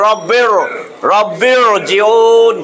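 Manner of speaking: রব্বির জিউন very slow, r heavy with rounded tongue. Shown as a demonstration. Teacher demonstrating the rounded heavy r, very slow. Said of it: "রটা জিব্বাটারে গোল করে".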